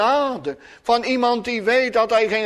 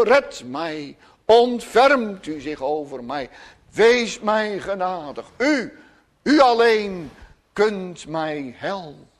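a beggar crying for mercy, lifting on O; a hint of desperate pleading, not fully voiced. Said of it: "een smekend roepen". (smekend roepen om genade)

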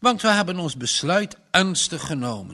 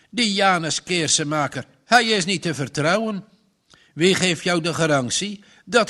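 put-on stubborn old farmer, louder and insistent; stern farmer; 3 semitones higher, 4 dB louder than usual. Farmer warns Margje against Janus, stern and loud. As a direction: lay down the law like a distrustful farmer.

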